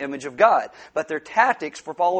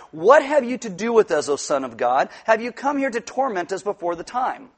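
raised, louder scripture quote; crying out; 3 semitones higher, 3 dB louder than usual. Acted. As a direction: call it out like an outcry, mildly. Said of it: "they cried out".

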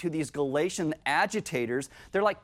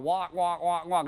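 droning "walk, walk" like muffled adult talk; lightly voiced wah-wah teacher drone; Charlie Brown teacher. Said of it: "Charlie Brown's parents or teacher going".

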